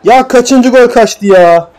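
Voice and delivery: high, drawn-out frustrated cry; exasperated complaint. Real, not acted. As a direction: protest yet another wasted chance. Complains at repeated misses.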